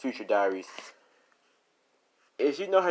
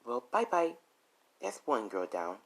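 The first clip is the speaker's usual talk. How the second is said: taunting goodbye then cool aside; mocking farewell; 3 semitones higher, 4 dB quieter than usual. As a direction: Rose waving off her victim, mocking. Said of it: "as she's like".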